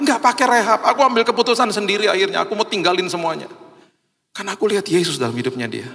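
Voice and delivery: fervent retold declaration, softening to the close; emphatic testimony. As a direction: insist you chose it yourself. Friend's testimony continues, emphatic denial.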